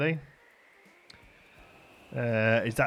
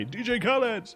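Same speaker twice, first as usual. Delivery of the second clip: Impression of a DJ; 11 semitones higher than usual. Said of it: "just used to say".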